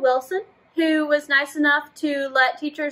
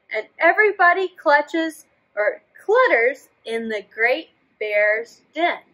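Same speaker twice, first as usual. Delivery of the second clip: put-on reading to children; 3 dB louder than usual. A narrator's reading. Teacher reading a story to children. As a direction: draw the kids into the story. Reads picture book aloud.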